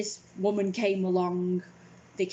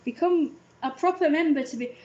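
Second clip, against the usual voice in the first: dating site nagging her to pay, mock sweet; mock website voice; 7 semitones higher, 3 dB louder than usual. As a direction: sell it sweetly like an ad. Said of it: "it's like".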